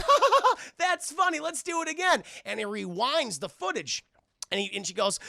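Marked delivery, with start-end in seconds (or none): 0.0-2.2 high, loud put-on laugh; hammed-up laughing. Onlooker delights in the prank, high mock laughter.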